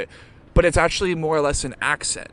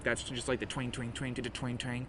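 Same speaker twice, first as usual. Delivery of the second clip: imitated bass twang; 14 dB quieter than usual. Shown as a demonstration. Imitates bones cracking, bass clank.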